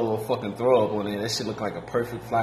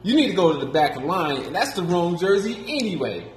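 angry; 7 semitones higher than usual. Retold or imitated. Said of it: "And he's like".

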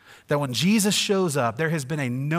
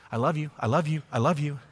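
empty repetition; 2 semitones higher than usual. Pretend. Husband repeating I love you to his wife, hollow and rote. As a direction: rattle off I love you over and over. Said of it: "all I ever said to her was".

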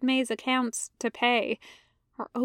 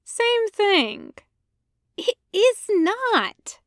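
higher, slow hissed retort; Ahsoka hissing; 9 semitones higher, much slower than usual. Acted. Ahsoka to Anakin, higher slow hissed denial. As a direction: hiss a correction back. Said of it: "Ahsoka hisses".

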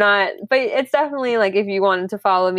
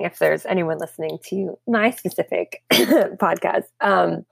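voice giving out; slower than usual. Real, not acted. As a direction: voice cracking and fading with a cough. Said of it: "sorry, I'm losing my voice".

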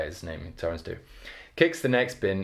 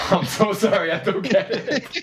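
high-pitched, laughing through the words; laughing apology; 11 semitones higher, 4 dB louder than usual. Real, not acted. Listener missed the punchline of the joke, laughing apologetically. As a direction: apologise while cracking up.

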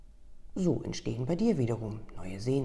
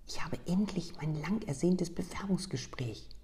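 higher, bright beaming whisper; 6 semitones higher than usual. Acted. Customer beaming as she tells of her long-awaited interview. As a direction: glow with joy about the interview. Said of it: "kam es strahlend zurück".

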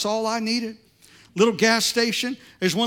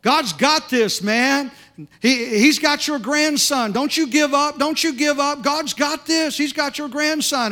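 put-on loud, high, half-drunk insistence; loud slurred encouragement from a drunk guy; loud drunk preaching; 6 semitones higher, 4 dB louder, slower than usual. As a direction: shout it like a tipsy stranger who means it. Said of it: "he starts talking real loud".

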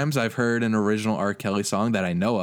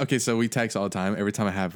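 usual speaking voice

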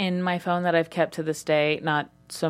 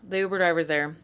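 whispered. Real, not acted. Tense escape moment.

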